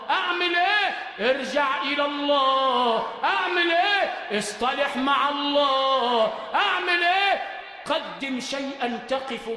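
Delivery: high, loud preacher's refrain; preacher driving it home; fiery preaching. Acted. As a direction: press the crowd with the question. Preaching call and answer.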